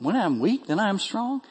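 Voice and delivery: "strong" lifted high as a question; puzzled questioning. Acted. Preacher questioning Paul's paradox to the congregation, puzzled. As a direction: softly query it, rising on "weak" and "strong". Questions the verse just read.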